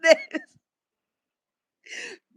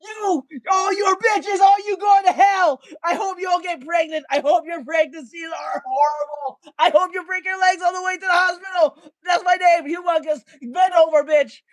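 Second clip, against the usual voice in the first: mock furious rant. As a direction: tell them all off, hamming up the fury. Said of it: "I was saying".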